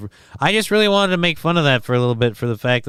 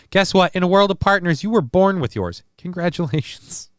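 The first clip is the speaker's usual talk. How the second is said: sarcastic announcement; 5 semitones higher than usual. Pretend. Mock announcement to twins.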